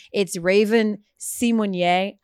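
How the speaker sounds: "Simonier" said slowly, see-mon-YAY; slow, careful "Simonier" ending in yay; correct pronunciation. Shown as a demonstration. Host carefully spells out the actress's preferred name, "Simonier". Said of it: "Raven Simone".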